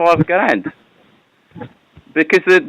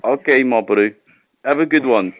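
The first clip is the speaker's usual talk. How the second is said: fake South African accent; 4 semitones lower, 3 dB quieter than usual. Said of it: "I do hear your British accent".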